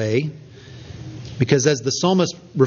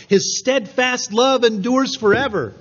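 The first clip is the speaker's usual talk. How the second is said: raised, higher call of the crowd; mock congregational call-out; 6 semitones higher than usual. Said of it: "the congregation yelling out".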